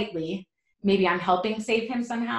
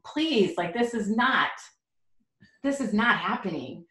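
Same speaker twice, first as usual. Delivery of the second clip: pleading; 3 semitones higher than usual. Retold or imitated. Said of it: "you're begging".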